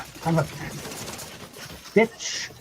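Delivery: slow, breathy whispered curse under the breath. Real, not acted. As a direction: hiss it slowly to yourself. Muttering after dying in game.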